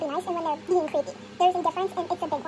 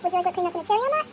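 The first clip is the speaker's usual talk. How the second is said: customer service script; faster than usual. Retold or imitated. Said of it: "And I was like".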